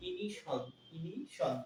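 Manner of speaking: ইনিশিয়াল said as "ni-shal", ending in a short shal sound; careful teacher model of ইনিশিয়াল as ini-shal; correct pronunciation. Shown as a demonstration. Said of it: "এটা বলতে হবে যে".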